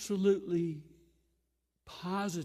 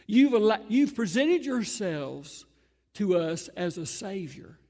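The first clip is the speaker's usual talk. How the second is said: mocking taunt; 4 semitones higher, 8 dB louder than usual. Crowd taunting Jesus on cross.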